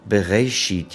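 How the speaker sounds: "Bereshit" said as "be-ray-sheet"; overdone A sound. Shown as a demonstration. Teacher allowing a small mistake, "Bereshit" with "ray". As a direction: lean the middle of "Bereshit" towards "ay". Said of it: "mistake towards the A sound".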